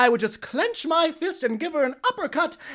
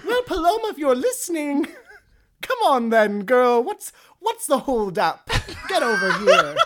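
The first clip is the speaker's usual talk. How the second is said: laughing call; 4 semitones higher than usual. Real, not acted. Calling out to guest, laughing.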